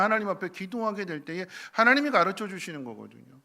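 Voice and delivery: loud, high preaching voice; preaching at full force. Acted. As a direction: preach it with rising fervour. (열정적으로 외치는 설교)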